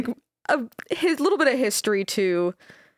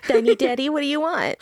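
laughing mock voice; 6 semitones higher, 3 dB louder, faster than usual. Mock creature reply.

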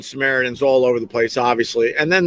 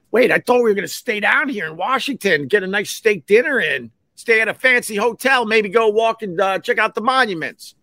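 whiny disappointment; 7 semitones higher than usual. Retold or imitated. Looking at Anthony, let down.

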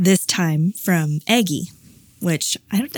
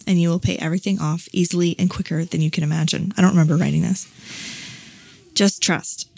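channelled message read aloud. Acted. Reading her journal to the cohost, calm guiding voice. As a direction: read it gently like a spirit guide.

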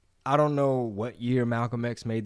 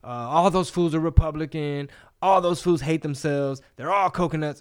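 mocking outsider rant; 4 semitones higher, 4 dB louder than usual. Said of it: "you know".

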